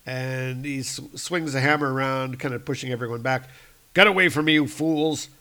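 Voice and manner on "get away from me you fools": mock angry shout. Thor pushes crowd back.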